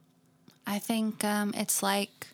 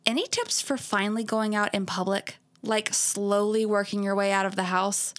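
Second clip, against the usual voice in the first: put-on valley girl. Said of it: "I'm gonna read it that way".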